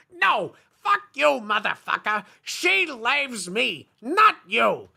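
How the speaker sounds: mock shouting match between goth boys. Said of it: "shouted Vampire".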